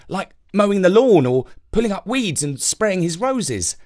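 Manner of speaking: put-on chatty little boy. Jake keeps talking.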